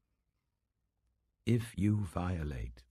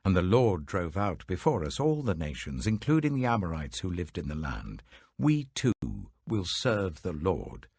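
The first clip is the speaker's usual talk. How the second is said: louder, rising proclamation of the people; fervent crowd reply; 4 dB louder than usual. Acted. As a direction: declare it boldly as the whole people. The people answer Joshua fervently.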